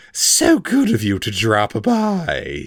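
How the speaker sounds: slow, sneering false courtesy. A narrator's reading. Vilnix mocks the captive elf, a slow sneer. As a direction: sneer the politeness. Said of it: "he sneered".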